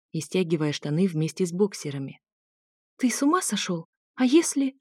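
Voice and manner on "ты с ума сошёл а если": mock outrage rising higher; playful, not really offended; half-hearted indignation. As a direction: protest without any real fire. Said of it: "Возмутилась я без огонька".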